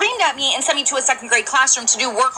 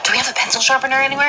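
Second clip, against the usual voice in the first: daughter whispering during Zoom class; hushed question so the class won't hear; whispered request; 3 dB louder than usual. Retold or imitated. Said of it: "She goes".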